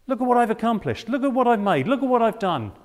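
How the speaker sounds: the conceited believer bragging about his deeds; boastful bragging. Pretend. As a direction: show off each achievement proudly. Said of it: "Have you ever had that mentality".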